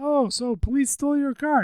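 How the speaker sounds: very high-pitched, put-on Filipino accent. Retelling what a filipino guy said about the towed car, imitating filipino accent. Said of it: "I'm trying to do the accent".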